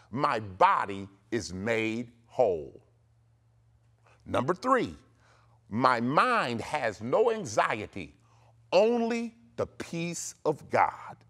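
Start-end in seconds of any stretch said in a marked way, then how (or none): 0.1-2.8 slow, low, spaced-out decree; declaration to repeat. Shown as a demonstration. Preacher giving listeners a healing decree, declaring. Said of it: "say this". 5.7-11.2 slow, weighty faith decree; declaration to repeat. Shown as a demonstration. Preacher giving listeners decree number three, declaring. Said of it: "say this".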